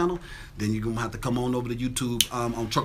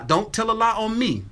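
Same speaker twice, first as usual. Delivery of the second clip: catchphrase; 7 semitones higher than usual. Acted. Catchphrase call to audience.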